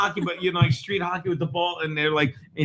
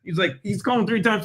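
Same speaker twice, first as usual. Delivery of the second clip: ordinary talk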